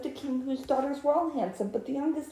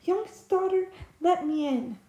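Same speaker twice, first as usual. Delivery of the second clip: frog calling; 6 semitones higher than usual. Acted. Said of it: "a voice crying".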